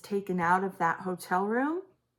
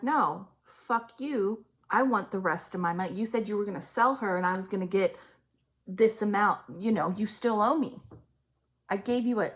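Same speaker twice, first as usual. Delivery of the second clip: mock-furious mother snapping back, louder; imitating angry mother; 3 dB louder than usual. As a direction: voice the mother's greedy rage at the scared man. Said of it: "And she's like".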